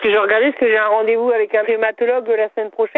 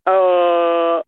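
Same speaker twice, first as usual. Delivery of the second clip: son tenu grave à la demande; voix plus grave; 4 semitones lower than usual. Real, not acted. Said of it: "Maintenant un A plus grave". (voix grave)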